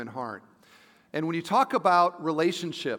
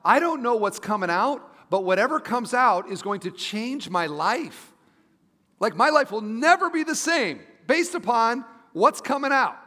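higher, louder, emphatic realization; retold anxious thought; 6 semitones higher, 4 dB louder than usual. Pastor recalling thoughts before his daughter's birth, worked-up realization. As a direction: relive the overwhelmed thought, pitch climbing. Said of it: "I was thinking to myself".

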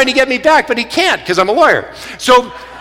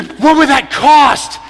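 higher, drawn-out retold exclamation; incredulous question; 4 semitones higher, slower than usual. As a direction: stretch the question out in disbelief.

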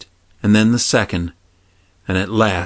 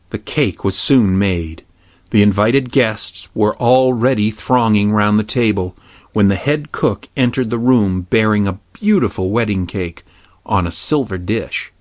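ordinary delivery

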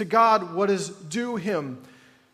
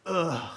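groan sigh; 3 semitones lower, 3 dB quieter than usual. Shown as a demonstration. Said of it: "I don't even know what a groan sigh sounds like".

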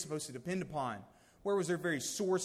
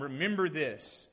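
louder, pointed "Remember this"; pointed preaching reminder; 6 dB louder than usual. Retold or imitated. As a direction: press "Remember this" hard like a warning. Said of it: "He's pointing back to the time".

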